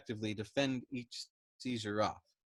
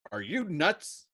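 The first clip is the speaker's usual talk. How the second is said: higher, louder question; shouted; 6 semitones higher, 6 dB louder, slower than usual. A narrator's reading. Yossarian shouting at Dobbs, higher and louder. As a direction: shout it in disbelief. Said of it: "Yossarian shouted".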